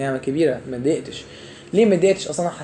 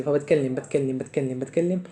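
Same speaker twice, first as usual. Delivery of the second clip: talking without breath; 3 semitones lower, 4 dB quieter than usual. Shown as a demonstration. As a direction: repeat it in a run, trailing softer. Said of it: "فانا باخدش نفسي". (كلام متواصل من غير نفس)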